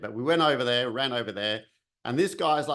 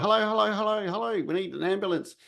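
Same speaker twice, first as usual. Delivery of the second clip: urgent calling out; 8 semitones higher than usual. Retold or imitated. Banging on a door for help.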